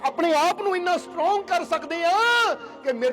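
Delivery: impassioned preaching. Real, not acted. Preacher warns followers their crying pains the Lord, impassioned. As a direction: preach it with rising urgency. Exhorts congregation to vow.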